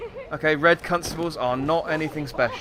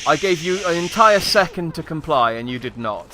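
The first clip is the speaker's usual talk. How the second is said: mock stern, laughing; 3 semitones higher, 6 dB louder than usual. Playful mock threat to NPC.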